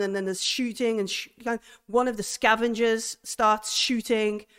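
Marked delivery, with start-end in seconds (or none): none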